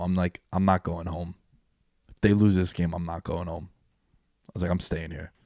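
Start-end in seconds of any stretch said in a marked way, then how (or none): 0.5-3.7 low, softer wrestling promo threat; lightly voiced brooding wrestler promo; Jake the Snake promo. Fan telling mom he won't leave, in a low promo voice. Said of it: "like I was Jake the Snake Roberts cutting a promo". 4.7-5.3 low, softer wrestling promo threat; lightly voiced brooding wrestler promo; Jake the Snake promo. Fan telling mom he won't leave, in a low promo voice. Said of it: "like I was Jake the Snake Roberts cutting a promo".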